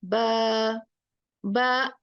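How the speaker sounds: बा left open, vowel drawn out with no catch at the end. Shown as a demonstration. Teacher showing students the open बा. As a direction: let बा ring open without closing it. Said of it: "इसको खुला छोड़ना है".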